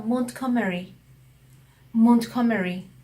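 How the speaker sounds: 몬트고메리 split into 몬트 and 고메리, stress on 고; crisp 몬트, then 고메리 with its own stress; separated native pronunciation. Retold or imitated. Friend showing the correct station name, separated stress. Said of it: "따로 분리시켜서 강세가".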